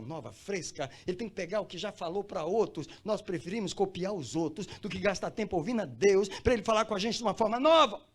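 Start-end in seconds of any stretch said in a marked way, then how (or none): 3.0-8.0 loud, high preaching cry; impassioned preaching. Real, not acted. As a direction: build to full-voiced exhortation. Preacher rises to full force. (pregação inflamada, em voz alta)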